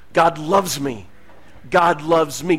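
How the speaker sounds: "God loves me" stretched very slow, rising on "me"; slow mirror affirmation; drawn out. Shown as a demonstration. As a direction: savour "God loves me" slowly. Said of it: "saying, "God loves me".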